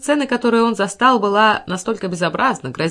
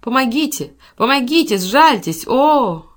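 loud, high pleading cries; desperate weakening cries; 5 semitones higher, 5 dB louder, slower than usual. A narrator's reading. Rita begs for help while attacked, desperate cries. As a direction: plead for mercy in bursts. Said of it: "слабеющий голос Риты".

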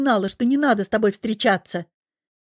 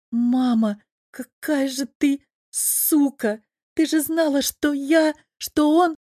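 outraged daughter; 5 semitones higher, slower than usual. Acted. Дочь узнаёт о предательстве матери.

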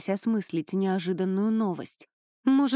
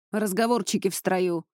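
usual speaking voice

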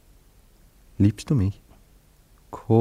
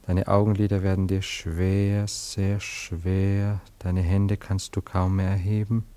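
slow, soothing hypnotist voice; hypnotic lulling; much slower than usual. Acted. Anatol hypnotising Cora, slow and soothing. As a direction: lull her to sleep, word by word.

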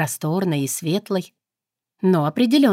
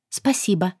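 sincere. Acted. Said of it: "произнесла искренне".

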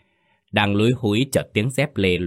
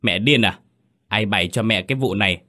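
hissed outburst. Acted. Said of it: "Nó rít lên".

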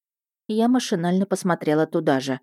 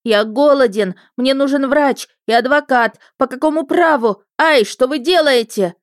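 high, loud squealing shout; shrill yell; 8 semitones higher, 6 dB louder than usual. Acted. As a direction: squeal out the threat. Captive water spirit protesting loudly.

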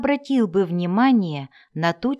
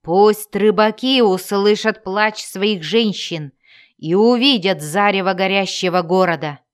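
booming warrior king. Acted. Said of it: "загремел голос короля варваров".

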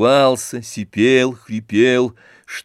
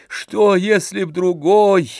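horrified; 7 semitones higher, 4 dB louder than usual. A narrator's reading. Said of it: "с ужасом прибавил он".

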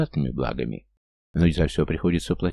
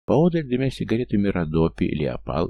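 usual speaking voice

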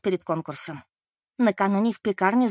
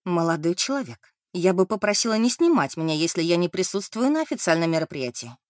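bone-chilling cold tone. Acted. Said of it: "холодным, продирающим до костей тоном".

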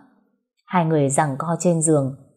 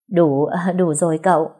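delighted laugh. Acted. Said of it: "mừng ra mặt".

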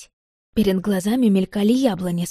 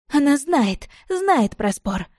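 mildly shouted through tears, high at first; tearful shout; 7 semitones higher, slower than usual. A narrator's reading. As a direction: act her crying out, choking on tears. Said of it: "закричала Лида". (сдержанно сыгранный крик сквозь слёзы)

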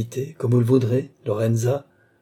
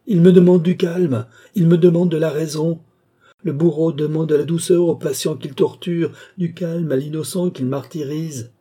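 much higher and louder, shouting in rage; furious outburst; 6 semitones higher, 5 dB louder than usual. Acted. Lorenza, enraged, rails at Balsamo for demanding calm. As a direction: hurl it at him in indignant fury.

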